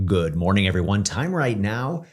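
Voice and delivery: lightly voiced morning news anchor; breezy news anchor sign-off. Shown as a demonstration. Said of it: "incredible T V anchor voice".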